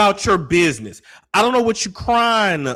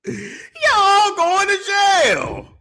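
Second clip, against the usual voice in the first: mock sentencing; 13 semitones higher, much slower than usual. Mock verdict on the couple.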